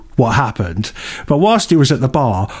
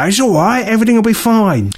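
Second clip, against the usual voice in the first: mock reassurance; 7 semitones higher than usual. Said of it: "tap 'em on the shoulder and go".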